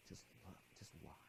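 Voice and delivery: hushed, nearly voiceless whisper; little inner voice. Retold or imitated. Little voice guiding the student watching the sunset, whispered. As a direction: whisper a small, quiet nudge. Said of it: "this little voice said".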